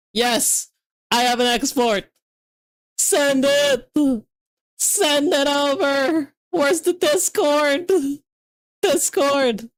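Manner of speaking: high, eager calls to send it; high excited pleading; excited urging. Real, not acted. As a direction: hurry your friend along, thrilled. Export succeeds, urging friend.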